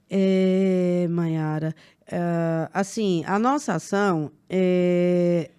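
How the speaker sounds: halting, stumbling over é; hesitant with fillers. Retold or imitated. Staff member hesitating on a sales call, halting. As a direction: fumble the pitch with filler words. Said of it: "não tem é".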